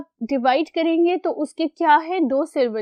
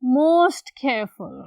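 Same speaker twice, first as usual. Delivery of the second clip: slow dictation; much slower than usual. Shown as a demonstration. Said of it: "for superlative you have".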